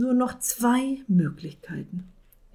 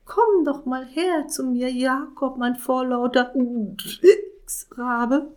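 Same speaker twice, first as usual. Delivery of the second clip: witch voice; 5 semitones higher than usual. Acted. Witch calls the raven.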